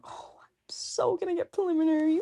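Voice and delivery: worried whisper under the breath; stressed whisper. Retold or imitated. After the exam, among friends, a stressed whisper. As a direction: mutter your doom to yourself.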